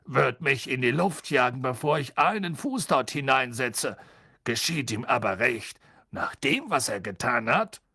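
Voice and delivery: lightly voiced gruff driver; Ernie the driver. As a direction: grumble without hurry.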